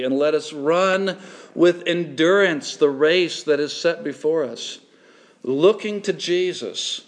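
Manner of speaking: measured, solemn Bible reading; deliberate public reading of scripture. Acted. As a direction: read the verses out to the congregation. Reads Hebrews twelve aloud.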